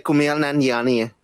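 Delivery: "Kumail Nanjiani" in an imitated native accent; real native accent of the name. Shown as a demonstration. Co-host showing the host the name's real accent, imitated. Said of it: "the real accent would be like".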